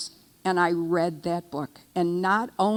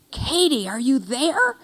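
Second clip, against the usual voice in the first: mild mock scream; 7 semitones higher than usual. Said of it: "screamed into the phone".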